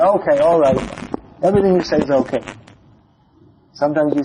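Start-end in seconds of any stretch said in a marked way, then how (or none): 0.0-2.4 mildly exasperated, dismissive agreement; frustrated giving in. Acted. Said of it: "Is he frustrated with Krishna?".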